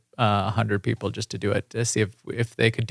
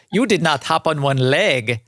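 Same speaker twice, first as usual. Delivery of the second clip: Osis adventurer voice; 2 semitones higher than usual. Shown as a demonstration. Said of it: "That is my Osis adventurer voice".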